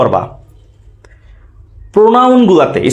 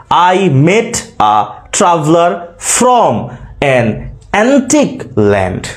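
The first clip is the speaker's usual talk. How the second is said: "I met a traveler from an antique land" slowly, beat by beat; metrical scansion reading; much slower than usual. Shown as a demonstration. Teacher scanning the poem's first line, slow and measured stresses. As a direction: separate the words, leaning on met, traveler, from. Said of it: "উচ্চারণের সাথে বুঝবা".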